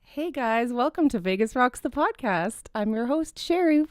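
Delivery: bright podcast host intro; radio voice. Shown as a demonstration. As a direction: welcome them like a radio host. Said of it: "use your radio voice for us".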